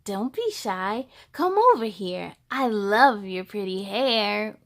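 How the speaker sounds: a hint of a sly monster coaxing. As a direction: lure the child in sweetly. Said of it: "She said".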